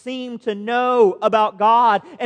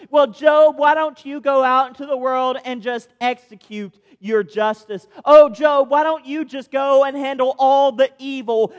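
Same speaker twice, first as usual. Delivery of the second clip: sarcastic; 2 semitones higher, 3 dB louder than usual. Acted. God mocking Job with sarcastic praise. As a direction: lay the sarcasm on thick as God. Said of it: "do you see the sarcasm that he is using".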